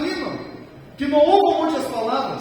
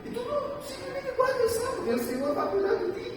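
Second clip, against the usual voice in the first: gentle divine command; 13 semitones higher, 7 dB quieter, faster than usual. Retold or imitated. Pastor voices God's command softly.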